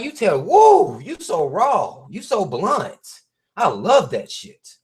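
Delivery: high gushing mock praise; mock admirer. Hyping up the blunt guy, mock gushing. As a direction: gush over him like a fan.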